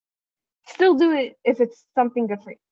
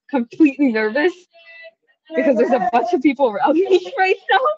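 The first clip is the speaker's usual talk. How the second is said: nervous; 4 semitones higher, 6 dB louder than usual. Real, not acted. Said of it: "my mental health status right now is that I'm".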